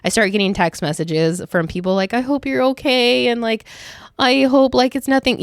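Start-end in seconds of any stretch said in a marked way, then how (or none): 2.1-5.4 higher-pitched imitation of worried well-wishers; voicing concern. Coworkers texting after she called out sick, voiced with concern.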